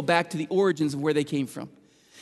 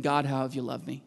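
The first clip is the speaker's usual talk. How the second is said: scornful mock question; 7 semitones lower, 8 dB quieter than usual. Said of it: "any more stupid thing to say".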